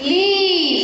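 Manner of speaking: "leaf" with the ee held long; slow, drawn-out "leaf"; long E sound. Shown as a demonstration. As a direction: stretch out the vowel in "leaf". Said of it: "ಲೀಫ್ ಅಂತ ಓದ್ತೀವಿ".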